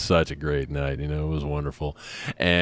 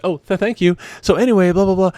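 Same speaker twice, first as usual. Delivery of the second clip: high, breezy chatter; distracted wife; 12 semitones higher, 4 dB louder than usual. Wife thanking the waiter and chatting on, high and breezy. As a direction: play the wife brushing it off mid-sentence. Wife voiced mid-sentence.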